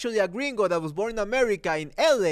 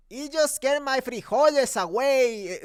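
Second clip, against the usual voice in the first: higher-pitched mock Mexican accent; imitated movie catchphrase, Mexican accent pitched up; George Lopez; 5 semitones higher than usual. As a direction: quote it in a hammed-up Mexican accent. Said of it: "this Mexican accent".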